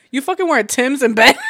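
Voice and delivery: mock outrage breaking into laughter; laughing outrage. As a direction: blurt it out, cracking up. Retold outburst, laughing at own joke.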